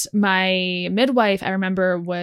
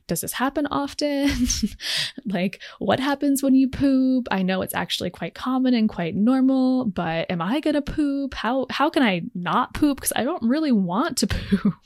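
anxious question; 6 semitones higher than usual. Retold or imitated. Retelling her anxious birthing class question.

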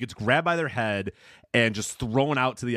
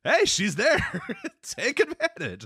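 high, jeering fan voice; mock crowd; 14 semitones higher, slower than usual. Mimicking fans urging Gene to take advantage, high mock jeer. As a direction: egg him on like a rowdy fan. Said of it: "As in, you know".

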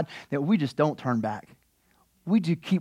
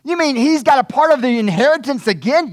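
sharp high loud What; shocked brother; 9 semitones higher, 6 dB louder than usual. Retold or imitated. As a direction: disbelief blurted out. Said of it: "It's like".

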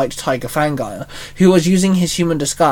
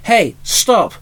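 higher call across the yard; 5 semitones higher than usual. Acted. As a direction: call out to stop him. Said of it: "Shinzo called out".

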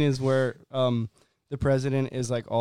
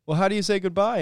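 mock alien voice; 6 semitones higher, 5 dB louder, faster than usual. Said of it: "he goes".

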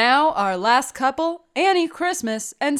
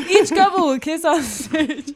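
laughing; 4 semitones higher than usual. Real, not acted. Still laughing while reading.

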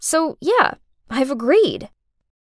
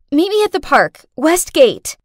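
urgent call; 4 semitones higher, 3 dB louder than usual. Acted. Urgent call while running away.

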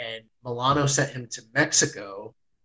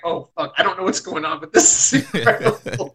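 rising into a high, louder squeal of awe; overwhelmed excitement; 5 semitones higher, 4 dB louder than usual. Retold or imitated. Fan telling friend how the match hit him, squealing in awe. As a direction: let it climb until it cracks with amazement. Recalling his reaction to Milano crying.

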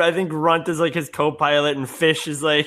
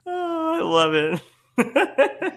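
laughing; 10 semitones higher, much slower than usual. Real, not acted.

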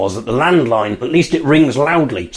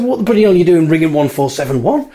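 raised, baffled questioning; incredulous; 5 semitones higher than usual. Retold or imitated. Family asking fiancée what she is doing, incredulous. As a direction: demand an explanation in disbelief.

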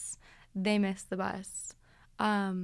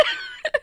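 laughing shriek; 3 dB louder than usual. Real, not acted. Laughs after the mock shout.

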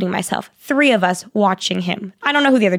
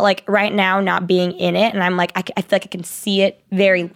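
usual speaking voice

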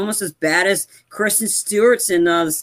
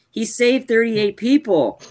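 "he saved thirty-eight people" slow and higher, insistent; emphatic repetition; 5 semitones higher, slower than usual. Real, not acted. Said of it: "I wanna keep emphasizing".

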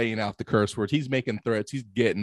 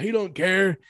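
lightly imitated London tough guy, pitched up; higher mock British bluster; Eddie Hall; 7 semitones higher, slower than usual. Eddie Hall dismissing his son's fear, mock bluster. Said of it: "That's how I was doing his voice".

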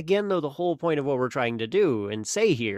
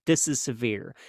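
mock panic; 3 semitones higher than usual. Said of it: "your brain's kinda telling you".

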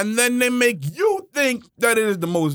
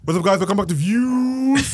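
podcast voice. Pretend. Host welcoming viewers back to the show, mock podcast voice. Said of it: "a podcast preacher voice".

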